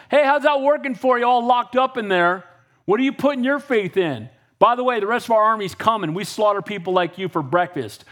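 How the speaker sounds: arrogant enemy taunt. Retold or imitated. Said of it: "So the enemy's being arrogant".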